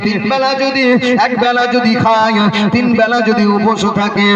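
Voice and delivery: sing-song preaching build; preacher rising into chant. Acted. Preacher voicing Prophet.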